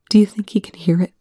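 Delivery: breathy bedside whisper. Acted. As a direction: whisper it so no one wakes. Hushed bedside question.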